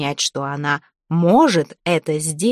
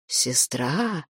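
much softer, low disbelieving echo; cold low doubt; 4 semitones lower, 8 dB quieter than usual. Acted. The dead man coldly questions Zateya's lie. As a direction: echo the word quietly, unconvinced.

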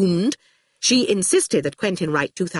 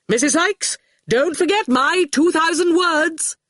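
high, ringing demand; booming; 11 semitones higher, 3 dB louder than usual. A narrator's reading. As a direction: boom it out imperiously. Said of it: "voice came booming out".

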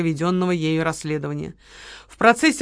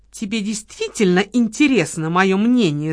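ringing voice. Acted. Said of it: "звенящим голосом вопросила Лола".

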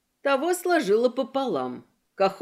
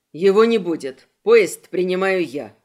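louder, lower firm statement; firm loud declaration; 4 semitones lower, 7 dB louder than usual. Acted. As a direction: lay it down flatly. Gora asserts himself to the girl.

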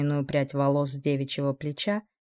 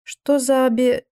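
surprised; 7 semitones higher, 5 dB louder, slower than usual. Acted. Cass cut off mid-question.

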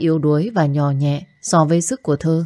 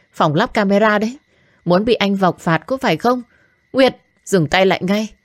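raised, higher voice, begging them to stop; urgent pleading; 4 semitones higher than usual. Acted. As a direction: try to break up the fight. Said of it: "gào thét và can ngăn". (giọng cao can ngăn)

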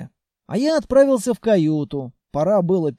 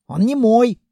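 louder, annoyed retort; snapping back; 4 semitones higher, 6 dB louder than usual. Acted. Captain snapping at the hero about the groom. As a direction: snap it back. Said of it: "огрызнулась капитан".

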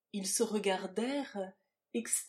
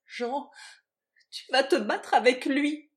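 loud, raised, urgent cry; anguished cry; 5 semitones higher, 10 dB louder than usual. A narrator's reading. Woman seizing Jean's hand over the duel, loud cry. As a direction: cry it out in alarm. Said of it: "cria-t-elle".

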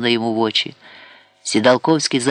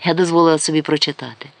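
usual speaking voice

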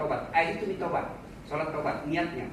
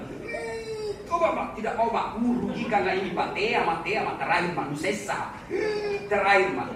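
hammed-up cries of a woman in labour; mock woman in labour. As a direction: wail for your mother mid-labour, half laughing. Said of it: "Tobat-tobat itu teriak-teriak". (ibu melahirkan yang merintih dibuat-buat)

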